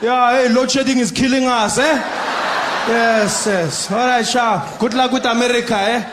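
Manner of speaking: high, loud chatty guard; loud high breezy guard voice. Retold or imitated. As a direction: chat on without a care.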